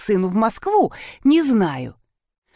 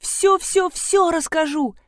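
high, slow tearful outburst; mild weepy wail; crying out; 9 semitones higher, slower than usual. A narrator's reading. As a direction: burst into tears mid-line. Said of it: "заплакала Арина".

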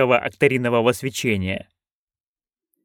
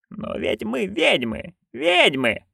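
yelled; 8 semitones higher, 5 dB quieter, slower than usual. A narrator's reading. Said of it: "вдруг заорала матушка".

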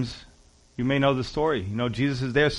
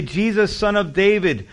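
crying out; 4 semitones higher, 4 dB louder than usual. Acted. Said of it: "he starts to cry out".

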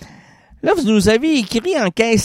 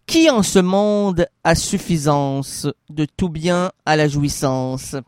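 slow recital; 3 semitones lower, slower than usual. Shown as a demonstration. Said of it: "nous allons répéter".

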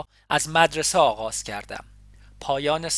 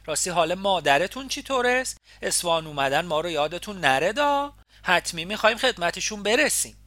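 put-on chatty landlady in a thick Isfahani accent, pitched higher; doting Isfahani landlady, higher and louder; 5 semitones higher, 5 dB louder than usual. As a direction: gush about the boy in broad Isfahani. Landlady blessing the couple.

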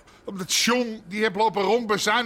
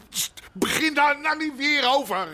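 raised, exasperated voice; angry snap; 6 semitones higher than usual. Acted. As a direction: cut her off in exasperation. Harry snaps at his wife. (geïrriteerd uitvallen tegen zijn vrouw)

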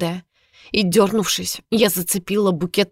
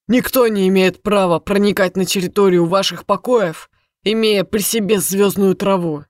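indifferent clipped delivery; 3 dB louder than usual. Acted. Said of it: "Равнодушно отчеканил он".

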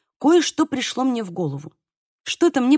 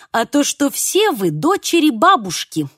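ominous; 3 semitones higher, 3 dB louder than usual. Acted. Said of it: "зловеще подхватила я".

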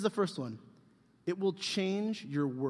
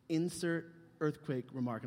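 slow dictation; 5 dB quieter, slower than usual. Retold or imitated. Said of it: "Here's what you gotta do".

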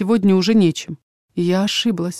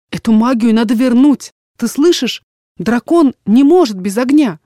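put-on a young woman pleading, louder and higher; distraught daughter insisting on giving the magic back; desperate daughter; 4 semitones higher, 6 dB louder than usual. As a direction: push back hard against your father.

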